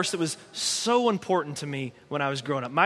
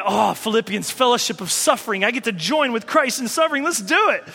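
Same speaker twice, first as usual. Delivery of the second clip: eager Paul again; 3 semitones higher than usual. Retold or imitated. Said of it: "Paul replies".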